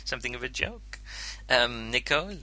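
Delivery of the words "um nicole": put-on a light French accent on the name. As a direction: call her name with a hint of French accent. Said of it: "I did that in a French accent".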